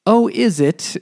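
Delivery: high, loud, falsely sweet denial; father hiding trouble from a farmer, hammed-up sweet voice; mock innocent father. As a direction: brush the farmer off with fake cheer.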